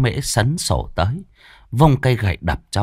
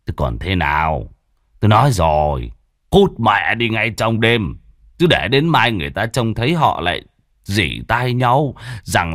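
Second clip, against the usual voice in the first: irritated father. Acted. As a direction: dismiss the idea and build to indignation. Father refuses angrily.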